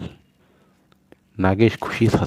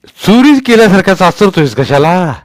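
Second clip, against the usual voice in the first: put-on old Patil's voice; 8 semitones higher, 8 dB louder than usual. A narrator's reading. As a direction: boom down at the little boy from the well. Patil questions Sonya.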